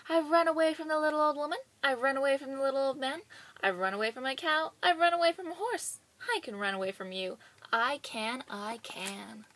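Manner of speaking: fast, loud boasting shout. Acted. Gingerbread boy shouting his boast at the threshers.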